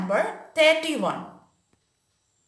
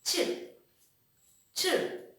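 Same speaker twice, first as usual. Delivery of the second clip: soft bird chirp; 6 semitones higher, 6 dB quieter than usual. Shown as a demonstration. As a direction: chirp chirp, light and breathless. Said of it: "What sound it makes?".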